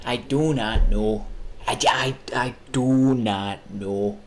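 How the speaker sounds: slow, drawn-out mock answer; slow deliberate. Answering his own question, slow and drawn out. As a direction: drag each word out slowly.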